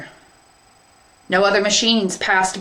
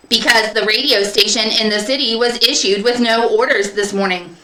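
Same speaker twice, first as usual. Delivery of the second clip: higher, louder literal clerk; pen propeller robot; 4 semitones higher, 3 dB louder than usual. Acted. Pen propeller explaining the radio, robotic. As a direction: explain it like a machine.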